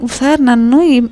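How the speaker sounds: mock whiny complaint. Retold complaint to host.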